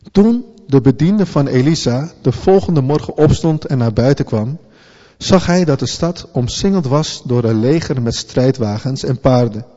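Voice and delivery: steady storytelling read of a Bible passage; scripture reading. Acted. Preacher reading the Elisha story to the church, measured.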